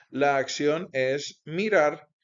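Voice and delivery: "mirar" drawn out with a falling close; slow the line and land on "mirar"; slow stress on "mirar". Shown as a demonstration. Teacher names the action, lingering on "mirar". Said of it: "teacher stresses key word".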